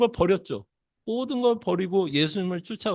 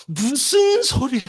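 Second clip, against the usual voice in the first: higher, yelling in angry disbelief; shouted protest; 7 semitones higher than usual. Retold or imitated. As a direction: shout it out like Peter refusing. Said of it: "막 소리도 지르지 않았을까".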